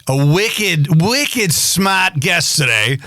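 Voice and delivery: put-on slow, drawn-out Boston accent. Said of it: "my Boston accent".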